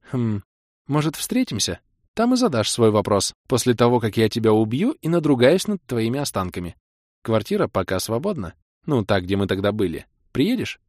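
mock threats, then a sweet invitation; playful girlfriend.

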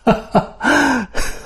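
high, flattered laugh that bursts out; burst of laughter. A narrator's reading. Mother laughing, pleased by the compliment. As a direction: laugh like a charmed lady. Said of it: "она залилась смехом".

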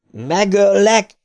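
high, drawn-out monstrous howl; howled threat. A narrator's reading. Dead George threatens to kill Bill, drawn-out howl. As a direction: stretch it into a slow high howl. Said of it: "üvöltötte George".

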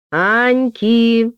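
loud, high stern call; mother commanding from the corridor; stern call from another room. A narrator's reading. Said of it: "строгий командный голос из коридора".

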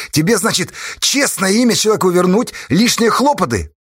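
heated indignation; angry. A narrator's reading. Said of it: "разозлился Асташа".

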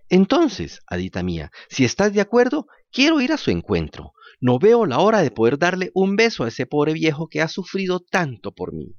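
high, grateful little puppet voice; a puppet thanking through drying tears; jerky creaky wooden puppet. Acted. Puppet eager to see father.

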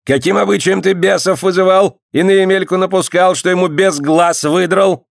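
lightly voiced stern clerk; stern dyak. A narrator's reading. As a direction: boss them about like a tsarist clerk. Dyak interrogates.

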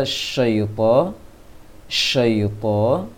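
"syaita" with lips pushed forward on the shin; slow imitation of a rounded, pouted "syaita"; bacaan monyong ditiru. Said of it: "Tadi dalam praktek Bang Syafri baca". (meniru "syaita" dengan bibir dimonyongkan)

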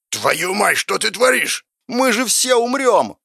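high, alarmed cry; panicked shout. Acted. Lust protesting that all will die, screaming. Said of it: "закричала похоть".

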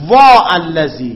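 slow, loud وا stretched before الذی; drawn-out lament. Shown as a demonstration. Teacher showing the forbidden lament form, drawn out. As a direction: cry out وا long and heavy. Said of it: "فلا یقال".

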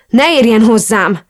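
mildly hysterical "don't touch me"; hysterical recoil. A narrator's reading. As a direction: push the hand away with your voice. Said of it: "Ráztam le hisztérikusan".

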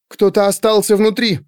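high, alarmed exclamation; frightened gasp. A narrator's reading. Pandora realising someone is inside, frightened exclamation. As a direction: let it out in fright. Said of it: "испуганно выдохнула она".

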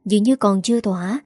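ordinary delivery

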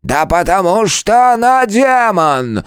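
high, loud, slow cutting reply; curt retort. A narrator's reading. Old turtle to the scout, cutting him off. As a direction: snap it back at once. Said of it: "тут же отрезал тот".

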